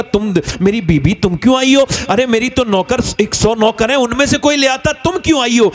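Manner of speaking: lightly acted husband's astonishment; a touch of puzzled disbelief; mild surprise. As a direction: question her as if mildly taken aback. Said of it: "हैरत का इजहार किया".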